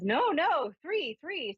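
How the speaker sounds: high, insistent repeats; mock insistent spirit voice. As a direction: firmly correct her, pitched high.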